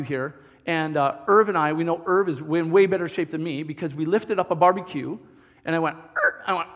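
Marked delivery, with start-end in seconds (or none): 6.0-6.4 short grunt of effort; strained grunt. Retold or imitated. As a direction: grunt as if heaving something heavy. Imitates straining to lift barbecue.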